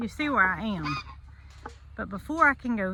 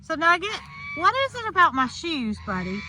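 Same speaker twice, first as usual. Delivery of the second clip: high affectionate voice to a pet; 4 semitones higher than usual. Real, not acted. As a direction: coax the animal sweetly. Talking to her animal Nugget.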